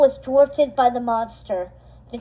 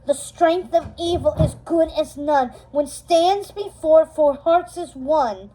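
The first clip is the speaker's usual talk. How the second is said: louder incantation; 3 semitones higher than usual. Acted. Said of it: "Mal said it again louder".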